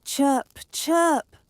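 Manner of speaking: high, loud chirping call; birdsong chirp. A narrator's reading. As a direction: chirp like a small bird. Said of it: "sang the bird".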